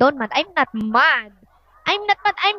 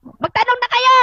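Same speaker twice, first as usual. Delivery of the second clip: calling out; 8 semitones higher, 3 dB louder than usual. Real, not acted. Calling out to viewers.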